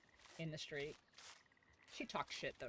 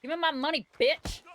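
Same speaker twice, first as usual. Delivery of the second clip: mock robber yell; 5 semitones higher, 4 dB louder than usual. Robbing someone in game.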